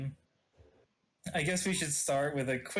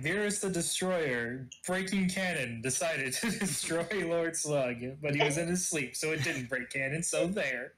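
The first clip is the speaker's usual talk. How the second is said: narrator voice. Acted. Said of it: "drop into a narrator voice and say".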